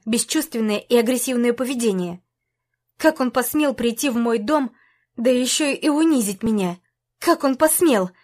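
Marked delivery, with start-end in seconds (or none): none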